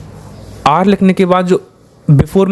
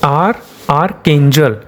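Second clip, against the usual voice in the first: slow sounding out; slower than usual. Shown as a demonstration. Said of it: "इसको divide कर देंगे".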